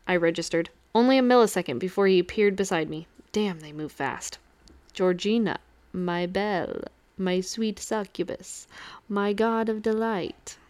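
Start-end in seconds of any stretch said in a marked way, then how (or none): 4.9-10.6 softer, slow theatrical intoning. Acted. Vampire Dwayne flattering the succubus, in soft slow intoning. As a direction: lay it on thick, a lightly voiced smarmy vampire. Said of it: "he intoned".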